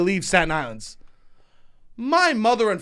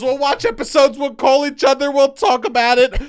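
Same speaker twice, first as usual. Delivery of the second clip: higher, louder eager dad voice; dad excited; 7 semitones higher, 5 dB louder than usual. Retold or imitated. Dad planning to discuss the show, eager and loud. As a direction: gush like a thrilled father. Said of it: "My dad goes".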